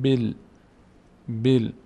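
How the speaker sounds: "بیل" as one joined syllable, bil; kasra joined to lam. Shown as a demonstration. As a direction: join ب straight onto ل in بیل. («بیل» با کسرهٔ ب و لام ساکن)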